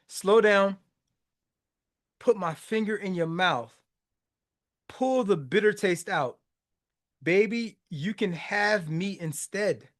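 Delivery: measured lyric reading with long pauses; reciting lyrics. Acted. Reciting her coaxing her angry lover, measured lyric reading. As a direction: recite it gently, phrase by phrase.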